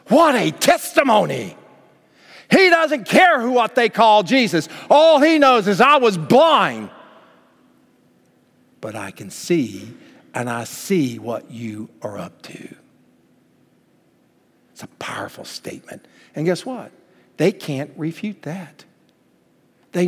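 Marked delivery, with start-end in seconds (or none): 2.5-6.9 high, loud, slow preacher's build; preaching at full force. Acted. Preacher building to a peak over the healed man. 8.8-12.8 sudden soft, slow, low delivery; hushed preaching. Acted. Preacher dropping low for the healed man's words, hushed. 14.7-16.1 whispered awe. Real, not acted. Preacher whispering awe to the congregation.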